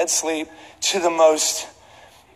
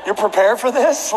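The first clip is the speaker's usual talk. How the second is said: mock indignant plea; 5 semitones higher than usual. Acted complaint to flight attendant.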